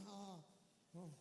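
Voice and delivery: gasping mock stammer, stumbling over the opening; mocking Bloomberg choking on stage, gasping stammer; mocking a flustered Bloomberg. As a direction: play a flustered rival stumbling for words. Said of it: "He's going".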